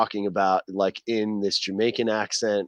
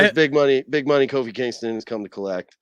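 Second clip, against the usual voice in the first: a light Jamaican announcer voice; Jamaican accent; 3 semitones higher than usual. Retold or imitated. Showing the toy to the host in a light Jamaican accent. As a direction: hype the title in a Jamaican accent. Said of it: "the thick boom boom Jamaican accent".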